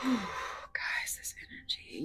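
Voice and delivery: hushed awe, barely voiced; whisper. Real, not acted. Tarot reader hushed in awe of the energy, whispered. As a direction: breathe it out in wonder.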